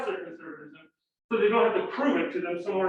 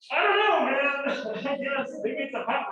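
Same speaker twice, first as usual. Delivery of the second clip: amused; 6 semitones higher than usual. Real, not acted. Laughing aside after absurd quote.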